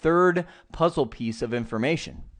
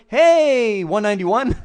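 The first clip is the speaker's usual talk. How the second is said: louder, higher call to a neighbour across the way; friendly call out; 6 semitones higher, 5 dB louder, slower than usual. Pretend. Computer hailing its neighbour host, a friendly loud call. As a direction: hail a neighbour from the front door. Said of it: "walk out the front door and be like".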